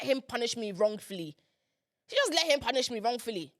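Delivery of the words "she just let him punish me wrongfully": hushed, voiceless repeat of the accusation; dramatic whisper. Shown as a demonstration. Daughter whispers her grievance against mum, hushed. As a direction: whisper it like a bitter secret.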